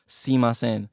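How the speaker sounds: "simasen", starting straight on a long "see"; shortened variant. Shown as a demonstration. Teacher reporting a variant heard from people, shortened pronunciation. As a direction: reduce the word to "simasen". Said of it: "I've heard people say".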